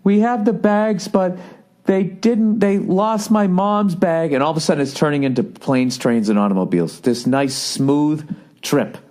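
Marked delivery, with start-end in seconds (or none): 0.0-4.3 high, drawn-out imitation of his wife; wife's voice. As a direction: imitate a wife on the phone, pitched up and slow. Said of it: "She goes".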